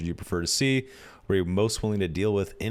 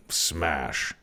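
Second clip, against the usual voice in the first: barbarian; 6 semitones lower, 4 dB quieter than usual. Pretend. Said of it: "I am a barbarian".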